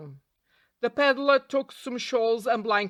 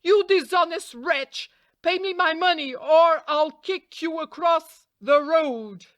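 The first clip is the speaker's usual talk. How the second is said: higher, louder, slowing threat; outraged donkey crying out at the cheating peddler; angry cry; 7 semitones higher, 4 dB louder than usual. A narrator's reading. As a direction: shout him down as a cheat. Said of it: "the donkey again cried to the peddler".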